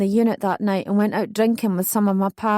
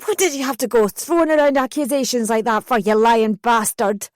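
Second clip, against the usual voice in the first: shouting. Retold or imitated. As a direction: shout the insult, spitting it out. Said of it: "She was shouting so loud".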